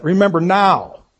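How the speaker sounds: mildly insistent demand. Acted. Teacher repeats a king's plea to God, demanding. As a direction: put a touch of demand in it. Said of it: "sort of a demand that comes with that".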